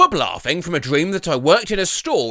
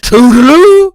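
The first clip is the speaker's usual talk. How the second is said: shrill loud sing-song goodbye; loud toodaloo; 8 semitones higher, 14 dB louder than usual. Acted. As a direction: yell it out cheerily. Loud woman in dream car.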